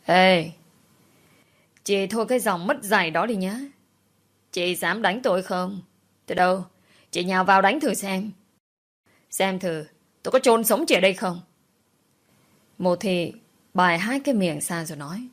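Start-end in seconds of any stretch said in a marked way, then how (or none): 0.1-11.4 growled threat. Acted. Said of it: "gằn giọng nói".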